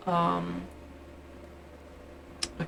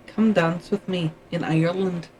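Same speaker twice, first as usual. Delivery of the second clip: light put-on accent reading Irish verse. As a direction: slip into a slight accent for the poem. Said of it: "I put on an accent at the end there".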